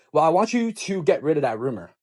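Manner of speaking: firm, insistent demand; mildly imitated stern voice. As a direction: lay down a stern order. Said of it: "She said that very sternly".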